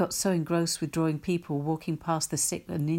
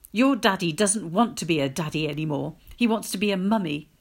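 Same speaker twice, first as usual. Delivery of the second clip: louder, grief-stricken wail; 6 dB louder than usual. Acted. Mother wailing the news to her child. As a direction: cry the news out in anguish. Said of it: "wailed my mother".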